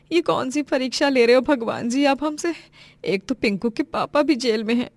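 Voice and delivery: mildly distressed mother's lament; a touch of helpless self-pity; despairing mother. Acted. Lata laments her losses. (हल्का बेबस विलाप)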